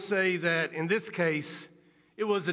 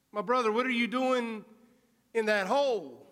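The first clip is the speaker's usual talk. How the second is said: caring pastor calling down; 5 semitones higher than usual. Acted. Religious leader calls into hole.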